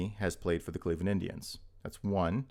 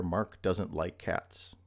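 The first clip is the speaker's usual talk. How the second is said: slow example read; much slower than usual. Shown as a demonstration. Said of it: "So when I say something like".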